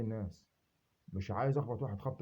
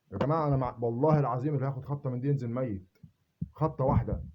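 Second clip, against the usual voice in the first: louder, swearing by God; loud oath; 5 dB louder than usual. Real, not acted. Swearing one blow from the stick kills, loud. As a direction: thunder the oath at them.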